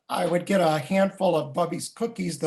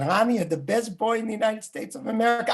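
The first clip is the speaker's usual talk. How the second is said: put-on higher, quick Russian-accented grandfather; 5 semitones higher, faster than usual. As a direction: gush it as a doting Russian grandpa. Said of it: "say to me in his Russian accent".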